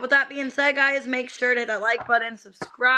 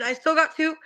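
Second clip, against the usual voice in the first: talking through hiccups; hiccuping mid-sentence; 4 semitones higher than usual. Real, not acted. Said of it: "I got the hiccups".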